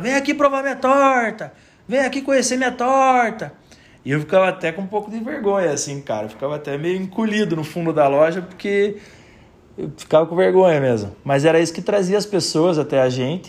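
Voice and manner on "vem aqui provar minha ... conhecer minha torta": mock, very high, shouted hawker's call. Retelling how Léo shouted from the shop counter, imitating Léo shouting. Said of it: "ele ficava gritando".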